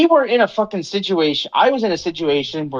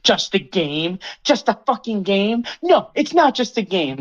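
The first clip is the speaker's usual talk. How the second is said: rising mock outrage, pitch climbing; indignant gamer, mildly mocked; mocking angry rant; 3 semitones higher, slower than usual. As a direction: ham up an offended gamer. Acting out Marcus's angry rant.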